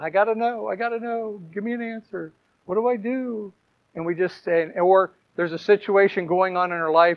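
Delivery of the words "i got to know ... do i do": put-on crying, whiny, pleading tone. Showing how people pray when whining for an answer: mock whining prayer. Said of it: "we're just crying and whining".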